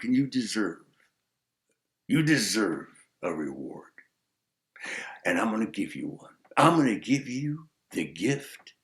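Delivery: lightly voiced sage granting a gift; kindly sage bestowing luck; wise man. Wise man granting the gift of luck, lightly voiced.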